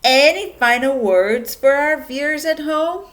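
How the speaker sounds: croaked. Acted. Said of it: "Mister Hamstring croaked".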